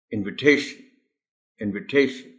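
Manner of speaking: इन्विटेशन said twice with TA stressed; model word, stress on TA. Shown as a demonstration. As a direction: repeat इन्विटेशन for the class. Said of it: "इसको हम इन्विटेशन कहेंगे". (इन्विटेशन दोहराएँ, टे पर ज़ोर)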